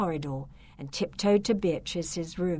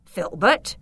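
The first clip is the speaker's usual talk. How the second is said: calling out; 7 dB louder than usual. Acted. Count calls for his servant.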